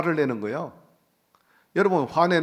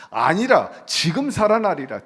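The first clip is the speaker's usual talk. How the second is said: loud, raised-pitch proclamation; emphatic declaration; 3 semitones higher, 5 dB louder, slower than usual. Acted. Jesus correcting the sisters about their brother, forceful proclamation.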